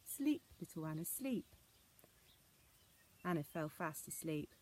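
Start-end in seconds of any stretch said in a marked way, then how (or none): 0.0-1.5 soft sweet lullaby. Acted. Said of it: "calling in soft, sweet voices".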